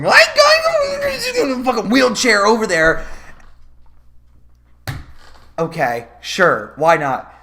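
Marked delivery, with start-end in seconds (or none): 0.0-3.1 Ethan voice. Retold or imitated. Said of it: "Ethan's like".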